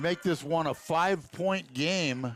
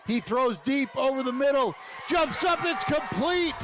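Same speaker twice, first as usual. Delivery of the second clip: excited play call; 7 semitones higher than usual. Real, not acted. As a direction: lift the voice as the catch happens. Live call of a deep pass.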